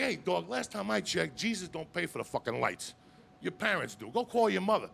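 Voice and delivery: put-on tough kid. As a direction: talk down like a tough guy. Kid mouthing off.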